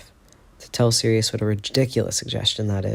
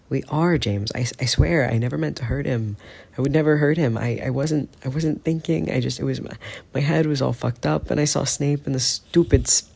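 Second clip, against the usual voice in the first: higher, halting, breathless pleading; 5 semitones higher than usual. Acted. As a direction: stumble over the words, desperate. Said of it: "Sirius sounds breathless".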